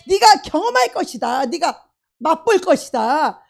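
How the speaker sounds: loud, rising preaching cadence. Acted. Preacher proclaiming God's promises to the congregation, loud. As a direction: proclaim each promise harder.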